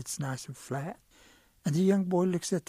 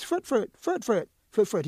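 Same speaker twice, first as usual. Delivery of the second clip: higher, louder calls for his cousin; hollering; 5 semitones higher, 5 dB louder than usual. Acted. Bitten rabbit calling his cousin for help, hollering. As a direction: holler the name out across the woods. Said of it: "and he hollers".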